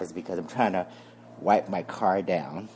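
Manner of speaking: breathy from physical work; out of breath. Real, not acted. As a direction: speak between breaths while wiping. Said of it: "If I sound like I'm out of breath".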